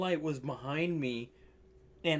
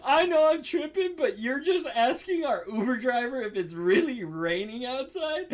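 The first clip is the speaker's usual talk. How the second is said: higher, laughing disbelief; incredulous, retold; 6 semitones higher than usual. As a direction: question it as if you can't believe it. Retold disbelief at friend's question.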